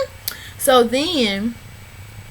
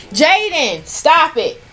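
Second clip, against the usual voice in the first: louder, higher scold; scolding the dog mid-recap, raised; 5 semitones higher, 3 dB louder, slower than usual. Real, not acted. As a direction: snap at the dog to stop. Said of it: "I'm fussing with my dog".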